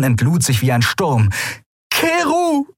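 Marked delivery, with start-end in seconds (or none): 1.9-2.7 high, desperate shout of his name; desperate call. A narrator's reading. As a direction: she cries out to Keru to stop. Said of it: "rief sie verzweifelt". (verzweifelter Ruf, sehr hoch)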